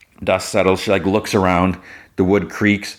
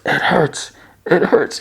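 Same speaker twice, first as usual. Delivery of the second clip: high-pitched whimpering wail; mock crying; 9 semitones higher than usual. Parker left behind as she walks away, mock crying. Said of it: "and cries".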